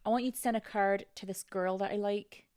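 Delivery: put-on tentative Scottish accent; attempted Scottish accent. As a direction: carefully try a Scottish accent. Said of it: "in a Scottish accent".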